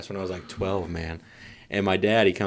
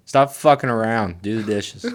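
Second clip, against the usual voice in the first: stern dad; 2 semitones higher, 6 dB louder, slower than usual. Retold or imitated. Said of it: "leans over and goes".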